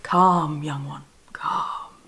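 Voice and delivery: low, slow, fading into a whisper; calming Saturn. Acted. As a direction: hush them like a wise old master. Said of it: "And Saturn's like".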